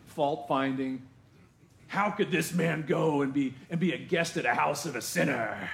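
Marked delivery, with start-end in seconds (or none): 1.9-5.7 sniffy crowd. Retold or imitated. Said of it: "that's probably how they said it".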